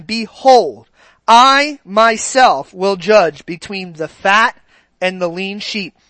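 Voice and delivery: slow, solemn Bible reading; scripture reading. Acted. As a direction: read the verse slowly and deliberately. Reading Ezekiel to congregation.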